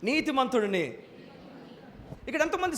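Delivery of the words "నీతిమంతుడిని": నీతిమంతుడిని proclaimed a touch louder, falling at the end; a bit louder. Shown as a demonstration. Preacher urging the church to repeat, slightly louder. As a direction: lift the volume on నీతిమంతుడిని. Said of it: "ఇంకొంచెం బిగ్గరగా".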